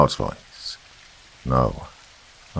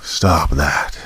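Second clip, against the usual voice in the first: a touch louder demonic command; bitter demonic tone; 4 dB louder than usual. A narrator's reading. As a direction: snap it like a demon. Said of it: "Now it was a bitter, demonic tone".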